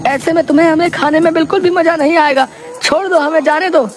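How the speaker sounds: very high-pitched, frightened priest voice; terrified pleading. Acted. Priest begging a cannibal to let them go, terrified. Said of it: "बुरी तरह डर जाते हैं".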